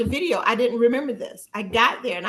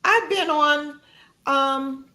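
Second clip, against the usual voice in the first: confident self-talk; 5 semitones higher than usual. Retold or imitated. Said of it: "it was like".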